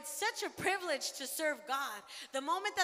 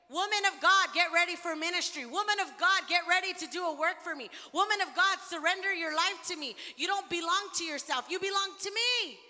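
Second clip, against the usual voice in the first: voicing God's call; 2 semitones higher, 4 dB louder than usual. Preacher voicing God to the women, a raised proclamation. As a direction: call them out like God himself commanding.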